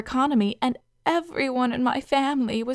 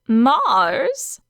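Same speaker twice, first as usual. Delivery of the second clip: matter-of-fact; 6 dB louder than usual. Acted. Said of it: "She said this as if it were obvious".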